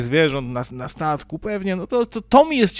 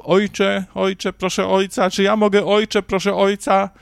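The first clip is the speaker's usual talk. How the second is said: lightly higher, fawning father-father patter; a hint of a simpering parishioner; mocking pious plea; 4 semitones higher than usual. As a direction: parody a churchgoer begging the priest. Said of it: "a tu".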